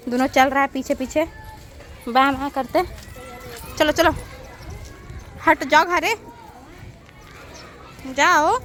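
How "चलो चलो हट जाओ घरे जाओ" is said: shooing. Real, not acted. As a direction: send them back home firmly. Shooing animals home. (जानवरों को घर की ओर हाँकना)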